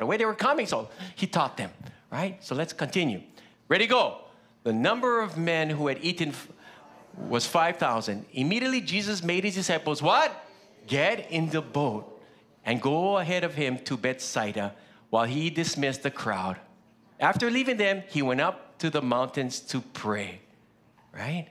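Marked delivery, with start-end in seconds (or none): 4.6-10.3 scripture reading aloud. Acted. Leads congregation reading scripture. 10.9-12.2 slow reading. Shown as a demonstration. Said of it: "Told them, he told them". 12.7-20.4 scripture reading aloud. Acted. Leads congregation reading scripture.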